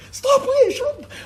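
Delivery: very high, half-laughing telling-off; mock exasperated hush. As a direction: play a big brother cutting him off. Hushing brother in interview.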